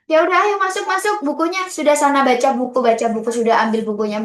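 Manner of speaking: put-on high, impatient, shooing kids off to read; mock a lazy librarian ordering kids around; bossy librarian. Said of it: "Ragam strategi membaca tuh bukan cuman gini". (pustakawan yang menyuruh anak membaca dengan nada tinggi dan tidak sabar)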